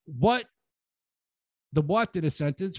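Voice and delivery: ordinary delivery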